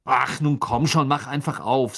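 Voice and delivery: heated, fed-up urging; angry. A narrator's reading. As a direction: plead angrily with something that will not budge. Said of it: "sagte er wütend".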